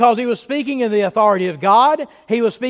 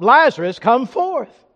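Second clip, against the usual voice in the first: raised, emphatic preacher's call; retold shout; 4 semitones higher, 5 dB louder than usual. Preacher quoting Jesus raising Lazarus, a mild shout. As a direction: cry it out, short of a full shout. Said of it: "Jesus shouted what?".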